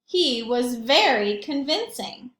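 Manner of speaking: slow, deliberate stress on very; slow emphatic reading. Shown as a demonstration. Reading Reginald's speech to the class, slow and emphatic. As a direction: lean into each word slowly.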